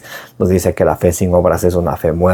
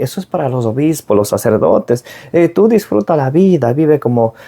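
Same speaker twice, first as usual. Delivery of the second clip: mocking dismissive voice; 3 semitones higher than usual. Preacher imitating people who mock faith, mild scoffing tone. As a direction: brush off faith like a worldly friend, a hint of a sneer.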